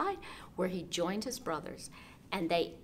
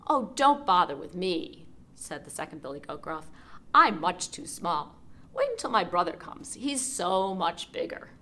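pleading goat; 6 dB louder than usual. Acted.

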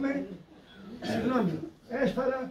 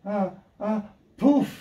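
short gasps, then a puff; imitated last breath; slower than usual. Nun hearing the man finally die, imitated last breath. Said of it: "τότε ακούω".

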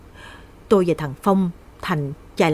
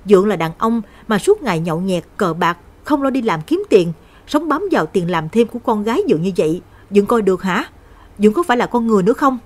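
loud, sharp reproach, speeding up at the end; loud snapping; 2 semitones higher, 4 dB louder than usual. Acted. Lan yelling at her drunken stepfather, angry and loud. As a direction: scold him hard, rushing the last question. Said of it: "Lan lớn tiếng gắt gỏng".

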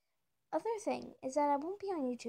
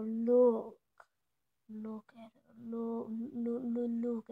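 insistent look; 3 semitones lower, much slower than usual. Real, not acted.

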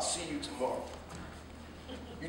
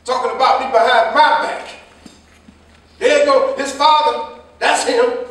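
louder, mimicking the neighbors' whispers; mocking gossipers; 3 semitones higher, 6 dB louder than usual. Father imitating neighbors pointing at him, mocking. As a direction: imitate the gossip with bitter scorn. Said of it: "people pointing at me".

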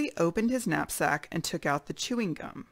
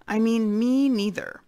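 high, louder little mouse insisting; tiny mouse voice again; 5 semitones higher, 4 dB louder than usual. Acted. Mouse repeats itself so the boars hear, high and louder. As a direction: repeat it, small but more insistent. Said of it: "said a tiny little voice".

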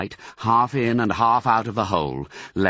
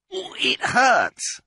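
high-pitched plaintive complaint; pained fox. A narrator's reading. Mister Fox with his wounded tail, pained. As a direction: whine it high, as if sore. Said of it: "said Mister Fox".

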